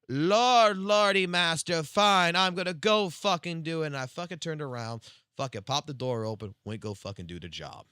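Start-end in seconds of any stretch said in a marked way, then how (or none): 0.1-3.9 loud, high sarcastic grovelling; mock submission. Bowing down to the boss in argument, loud mock obedience. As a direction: give in with exaggerated, exasperated servility. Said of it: "I fucking bowed down to him and said".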